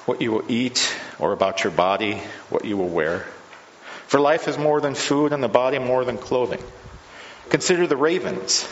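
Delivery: measured, formal Gospel reading from the pulpit; scripture reading. Acted. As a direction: read the passage to the congregation with care. Reads the Gospel passage aloud.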